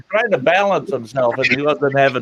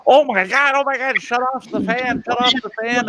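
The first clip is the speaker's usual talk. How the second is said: retold panicked yelling; 8 semitones higher than usual. Brother panics at the spinning fan.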